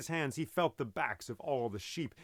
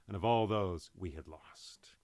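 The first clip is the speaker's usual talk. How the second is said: whisper; 6 semitones lower than usual. A narrator's reading. Mourning the lost sailors.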